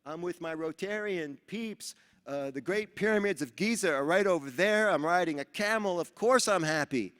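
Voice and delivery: excited reply. Retold or imitated. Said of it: "I said".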